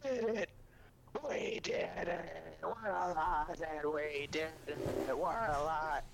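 high-pitched, drawn-out tearful wail; hammed-up sobbing celebration; mock crying. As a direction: imitate overjoyed bawling, stretching the words. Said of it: "they're crying like".

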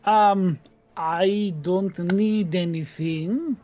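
a hint of a miffed gnome; Monty tells the party she needs nothing; lightly voiced gnome. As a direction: pull back, a touch offended.

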